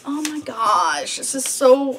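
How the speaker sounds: drawn-out, weary whine; whiny. Real, not acted. Vlogger struggling to tie the balloon, whiny. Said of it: "I'm so whiny this morning".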